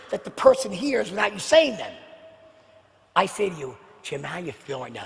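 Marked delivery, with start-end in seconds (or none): 4.0-5.0 quiet, caring question; sincere concern. Shown as a demonstration. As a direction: lower and softer, really meaning it. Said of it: "Wow, he really means it".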